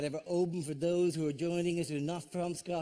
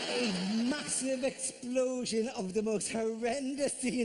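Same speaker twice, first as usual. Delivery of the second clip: mock grand narration; slower than usual. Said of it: "mock-grand slow storytelling".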